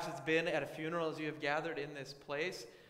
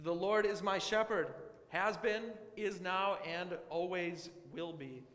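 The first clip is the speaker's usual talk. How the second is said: louder proclamation of the Lord is my shepherd; proclaiming; 3 dB louder, slower than usual. Shown as a demonstration. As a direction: ring it out to the congregation. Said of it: "I can say that to you with confidence".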